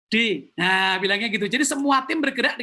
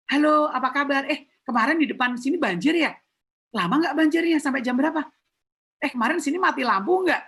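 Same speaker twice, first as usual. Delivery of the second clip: chatty curious customer; 3 semitones higher than usual. Retold or imitated. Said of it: "dia akan bilang".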